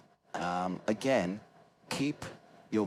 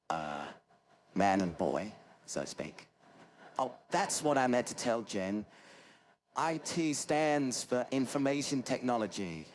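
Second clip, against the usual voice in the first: lightly put-on nasal IT nerd with hesitations; Maurice Moss. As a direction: impersonate a nasal, front-of-mouth British techie. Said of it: "an impersonation of Maurice Moss".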